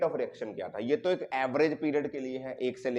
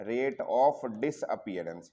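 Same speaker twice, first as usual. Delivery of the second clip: very slow, word-by-word dictation; writing-out pace; 4 semitones lower, much slower than usual. Shown as a demonstration. Teacher writing the term out for students, slow dictation. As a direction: spell it out slowly as you write. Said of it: "disappearance लिखता हूँ पहले".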